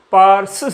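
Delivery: पारसिस with the ending सिस stressed; hissing sound demo. Shown as a demonstration. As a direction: lean on the सिस at the end of पारसिस. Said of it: "हिस का sound निकलता है". (पारसिस के अंत वाले सिस पर ज़ोर दें)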